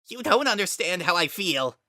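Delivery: high, loud, breaking; cracking voice. A narrator's reading. Kara cracking with grief at Frisk, high and loud. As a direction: let the voice crack on the edge. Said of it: "His voice cracked like ice".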